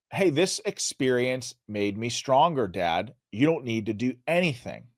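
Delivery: quiet, humble and sincere. Retold or imitated. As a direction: say it softly with humility. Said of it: "he was talking just with humility".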